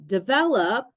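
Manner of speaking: deVELop, stress on VEL; "develop" with its second syllable standing out. Shown as a demonstration. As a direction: punch the middle syllable of "develop". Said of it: "stresses the second syllable".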